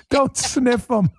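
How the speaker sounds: high, slow quote through laughter; imitating while laughing. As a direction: mimic the heckler while cracking up. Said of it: "I gotta laugh. He says".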